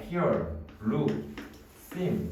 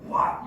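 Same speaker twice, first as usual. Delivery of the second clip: mock angry roar; slower than usual. Shown as a demonstration. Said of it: "이렇게 화가 나니까".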